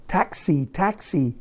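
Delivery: mock taxi shout. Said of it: "they were all screaming at me".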